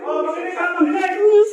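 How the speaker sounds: shouting orders. Acted. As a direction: bark orders at the room. Officer commands everyone to listen.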